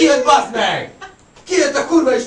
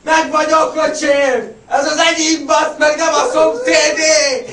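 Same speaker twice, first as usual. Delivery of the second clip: retold yell; 4 semitones higher, slower than usual. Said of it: "retold reply at fireworks".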